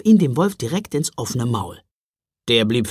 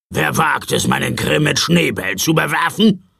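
threatening; 2 semitones higher, 4 dB louder than usual. Acted. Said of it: "fragte der Mann drohend".

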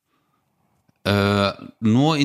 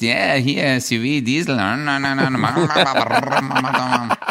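careless bragging. Retold or imitated. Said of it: "sobald die Kohle fließt".

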